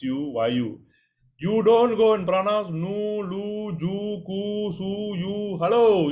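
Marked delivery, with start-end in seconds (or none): 1.4-5.6 plain nu lu ju su with a plain u sound; mock the wrong way, raised pitch. Shown as a demonstration. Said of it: "you don't pronounce like that". 5.6-6.1 sharp, louder Hello, as if calling a student out; scolding hello. Real, not acted. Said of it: "you don't pronounce like that".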